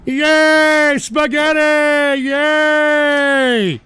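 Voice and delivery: high, silly mock-childish cheer; mock childish glee. Mocking a rival streamer as a gleeful child, high and silly. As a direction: squeal it like a gleeful kid.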